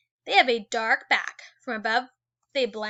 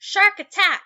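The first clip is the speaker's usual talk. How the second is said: dramatic alarm; 8 semitones higher, 10 dB louder than usual. Acted. Dramatic heading read aloud.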